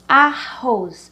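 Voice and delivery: "arroz" slowly, weight on the final "roz"; stress on last syllable. Shown as a demonstration. Teacher giving an oxytone example, last syllable stressed in "arroz". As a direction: split "arroz" and lean on its ending. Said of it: "Repita sempre antes de classificar".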